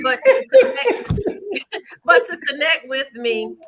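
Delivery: high, giggly attempt to carry on; breaking up laughing as you resume. Real, not acted. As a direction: get the words out through laughter. Trying to resume while laughing.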